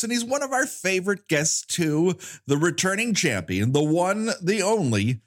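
big hyped-up guest announcement; hype introduction. Pretend. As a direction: build it up like a game show host.

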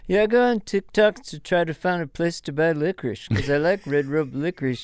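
Garth impression. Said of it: "Ray Romano versus Garth".

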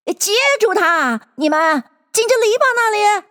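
high-pitched Rabbit calling orders; Rabbit's voice. A narrator's reading. Rabbit telling the others to catch Bill, calling out. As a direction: call out urgently, pitched well up. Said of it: "就是那兔子的声音说道".

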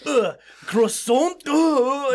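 put-on high, loud, disgusted French accent; mock French accent. Frenchman handed a donut for a croissant, mock French accent. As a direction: drag it out as a revolted Frenchman. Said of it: "make me hate the French".

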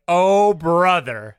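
slow drawn-out exasperation; weary eye-roll. Retold or imitated. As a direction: sigh it out, fed up. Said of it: "and he's like".

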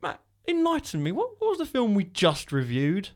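high mock plea. Mock pleading to cohost.

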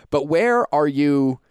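slow, drawn out around a sip; while sipping a drink. Real, not acted. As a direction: talk as you lift the coffee cup. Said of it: "I had to take a sip of that coffee".

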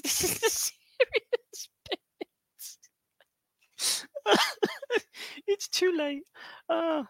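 can't keep a straight face; breaking into laughter mid-line; laughing through words. Real, not acted. Cracking up mid-sentence.

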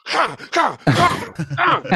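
high, carefree laughing voice; mock casual laugh. Rat killer strolls off unbothered, high breezy laugh. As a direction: laugh it off like nothing happened. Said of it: "just was like".

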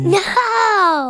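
loud put-on silly monster voice; grumpy guitar voice. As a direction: bark it out as a cranky guitar. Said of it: "Who is saying that?".

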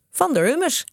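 high, lightly giggly voice; giggling. A narrator's reading. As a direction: say the name as if giggling. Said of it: "giechelde Kees". (giechelend, met hoge stem)

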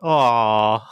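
drawn-out collective "aww"; melting mock-group aww; imitated cooing aw. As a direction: coo it like a charmed audience. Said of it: "they all went".

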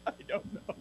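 breathless laughing whisper. Real, not acted. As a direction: giggle it out under your breath. Laughs while answering.

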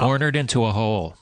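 said through a laugh; laughing while quoting the phrase. Real, not acted.

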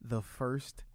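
very slow, soft, weighted words; slow emphasis. Real, not acted. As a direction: let each word sink in, slowly. Stressing the absurd offer.

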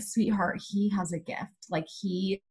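gently soothing a startled stranger; tender. Retold or imitated. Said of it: "Like, tender".

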